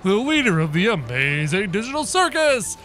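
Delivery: a hint of a cocky circus host; Caine voice. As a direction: taunt the monsters as the showman leader. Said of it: "uh, Caine voice".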